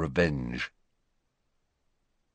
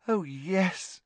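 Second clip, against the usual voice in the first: happily; 10 semitones higher, 5 dB quieter than usual. A narrator's reading. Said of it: "she said happily".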